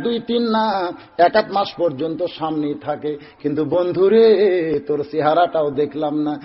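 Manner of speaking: half-chanted tale with drawn-out phrase endings; melodic sermon storytelling. Acted. Preacher telling of the young companion who never looks up, melodic chant.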